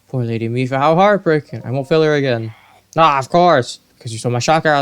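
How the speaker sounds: lightly voiced angry Zora soldier; a hint of a hot-headed fish warrior; accusing Zora guard. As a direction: accuse the hero, building to shouts. Reads a Zora's accusing lines.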